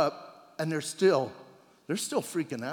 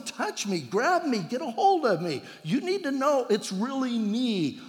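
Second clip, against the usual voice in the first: eager pleading; 5 semitones higher than usual. Retold or imitated. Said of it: "He's going".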